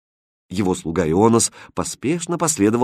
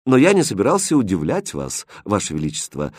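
calm. Acted. Prince calmly answers the queen, composed. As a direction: answer the queen without any fuss. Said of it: "спокойно ответил Хрустальд".

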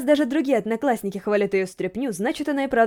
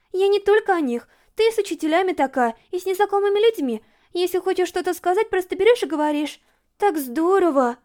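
higher, bubbly schoolgirl Yurika chattering; eager girl gushing about the zoo trip; excited friend planning a picnic, higher and lively; Yurika's voice; 7 semitones higher than usual. A narrator's reading. Yurika admiring Toka.

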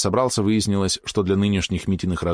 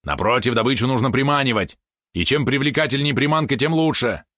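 high, insistent pet voice; eager pet helper; 6 semitones higher than usual. Acted. Valeron argues for being bait, high and insistent. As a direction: argue it in a lively higher voice.

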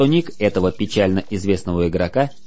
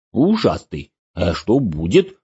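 ingratiating voice; 2 semitones higher than usual. Acted. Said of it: "заискивающим голосом".

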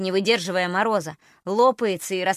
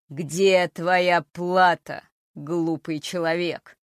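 clattering jaw cackling skull; 3 semitones lower, much slower than usual. Acted. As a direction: speak from a skull's jaws. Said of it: "низким и жутким голосом".

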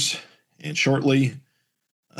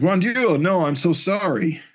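high-pitched, dismayed exclamation; acted horrified apology; 8 semitones higher than usual. Guard hit Triad by accident, horrified apology. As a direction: cry out in mock horror, then stretch the apology.

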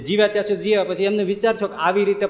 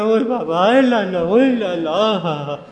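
panicked cries; slower than usual. Acted. Panicking passengers crying out.

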